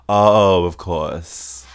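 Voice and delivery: loud oh falling away into of course; trailing words off. Shown as a demonstration. Showing a habit on "of course", trailing off. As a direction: let "course" trail off on its final S. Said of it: "trail words off".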